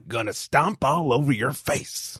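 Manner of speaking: slow, soft, lightly voiced wrestler threat; a half-hearted tough-guy wrestler growl, slow; bad Shawn Michaels impression. A podcast host's lightly voiced Shawn Michaels impression. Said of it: "my really bad Shawn Michaels impression".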